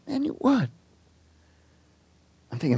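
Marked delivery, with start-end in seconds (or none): 0.1-0.7 high calling yell, imitating the dude; retold yell from afar. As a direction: call out high like a guy shouting across the park. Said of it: "the dude's yelling at me".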